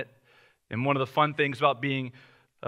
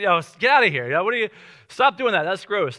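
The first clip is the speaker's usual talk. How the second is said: annoyed scold; 5 semitones higher, 5 dB louder than usual. Retold or imitated. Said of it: "And she's like".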